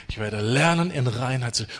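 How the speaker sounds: the word lernen carried with a rising emphasis; stress on lernen. Shown as a demonstration. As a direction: lean on the word lernen, lifting it. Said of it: "Die Betonung ist lernen".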